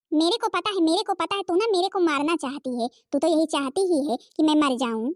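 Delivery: angry accusation. Acted. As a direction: accuse her of wanting you dead. Mother accusing the daughter-in-law. (गुस्से में इल्ज़ाम लगाती माँ)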